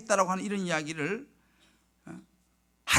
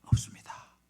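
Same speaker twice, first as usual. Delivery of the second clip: whispered admission; retold confession to the congregation, voiceless; frank admission; slower than usual. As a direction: let the hard truth out in a whisper. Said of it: "솔직하게 얘기를 했어요".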